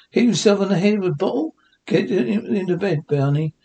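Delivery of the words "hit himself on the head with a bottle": rising, disbelieving echo; surprised question. Acted. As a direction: repeat it back in shock. Wilma echoes the news in disbelief.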